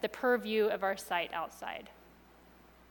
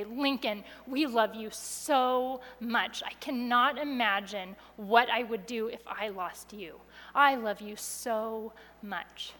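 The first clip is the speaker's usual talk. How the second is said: tender; slower than usual. Retold or imitated. Parents on the floor tell their found son they love him, slow and tender. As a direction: say it like holding your child after a scare.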